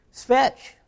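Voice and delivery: high, sharp yelled command; a big guy yelling at a dog to fetch; mock scream. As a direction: bark the order to intimidate the dog. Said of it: "he's try screaming".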